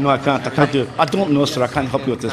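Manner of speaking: lightly put-on Scottish protest; Scottish accent. Commentator denying he can do it, in Scottish accent. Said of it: "Can you do a Scottish accent?".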